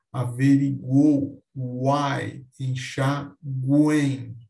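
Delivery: "Averiguou, uai, enxaguem" slowly, syllable by syllable; tritongo oral e nasal. Shown as a demonstration. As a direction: draw out "Averiguou" and "enxaguem", the last ending through the nose. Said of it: "Oral e nasal". ("Averiguou, uai, enxaguem" devagar, "enxaguem" nasal)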